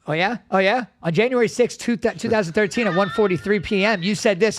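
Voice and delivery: mock accusing. Daughter imitating a grudge holder citing old dates, mock accusing.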